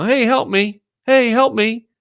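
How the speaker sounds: high, pleading beggar voice; beggar on the corner. Retold or imitated. Mocking the guy in the corner begging passersby, high pleading whine. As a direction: hold your hand out and whine for help like a street beggar. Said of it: "with your hand out like the guy in the corner".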